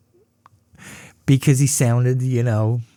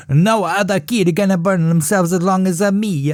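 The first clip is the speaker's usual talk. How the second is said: put-on boastful kid; 6 semitones higher than usual. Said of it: "He'd go".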